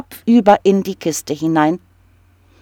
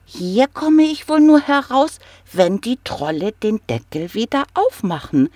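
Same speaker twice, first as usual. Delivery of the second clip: small kobold thinking aloud, starting much higher; little kobold; 5 semitones higher than usual. Acted. Kobold thinks in the gold trap, in a tiny high voice. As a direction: pipe it up like a tiny trapped goblin. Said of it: "dachte er".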